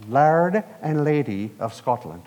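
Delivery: put-on a light go at a Scottish accent; bad Scottish accent. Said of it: "That's a horrible accent".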